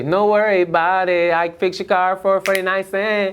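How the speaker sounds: character voice. Acted. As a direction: play a cheerful handyman promising anything. Comedian's character voice bit.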